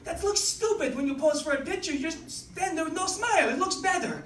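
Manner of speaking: hammed-up French Canadian accent. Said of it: "I'm gonna do her accent here".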